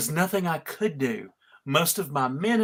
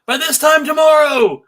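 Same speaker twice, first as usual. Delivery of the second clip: loud, grand villain's declaration, pitched higher; villainous proclamation; 4 semitones higher, 5 dB louder than usual. Acted. Bacchus to his Bacchae, loudly gloating over his coming triumph. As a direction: proclaim it to your followers like a gloating god.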